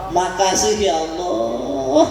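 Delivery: slow, drawn-out thanks to God; grateful thanks. Shown as a demonstration. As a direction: stretch the words out, overflowing with gratitude. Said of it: "Saking senengnya sama Allah". (ucapan syukur yang mendayu panjang)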